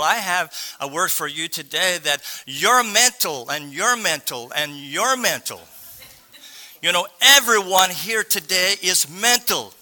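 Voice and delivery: mock giveaway announcement, each phrase swooping then falling; Oprah Winfrey. Preacher telling the congregation they're mental, in mock giveaway style. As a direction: lightly parody a prize-giving host. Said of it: "and then she would say".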